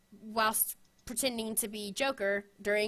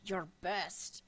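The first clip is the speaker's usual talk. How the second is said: bad Sean Connery impression; 5 semitones lower, 9 dB quieter than usual. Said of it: "I cannot do his voice or accent to save me".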